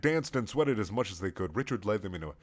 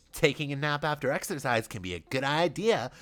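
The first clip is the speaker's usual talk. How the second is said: conversational; 4 semitones higher than usual. Acted. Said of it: "said Richard conversationally".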